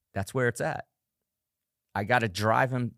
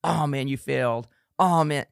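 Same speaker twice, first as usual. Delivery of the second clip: mock inner critic; 3 semitones higher than usual. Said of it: "negative speak to yourself".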